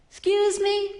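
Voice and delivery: acted-out incredulous waitress; retold disbelief.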